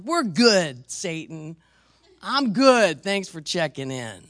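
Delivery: mock-cheerful dismissal, a touch loud; breezy dismissal. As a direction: wave the devil off lightly. Preacher dismisses the devil.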